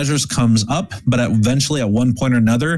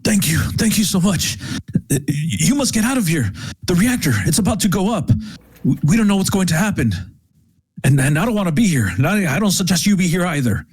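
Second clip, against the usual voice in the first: fleeing worker; 6 semitones higher than usual. Acted. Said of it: "one of them says".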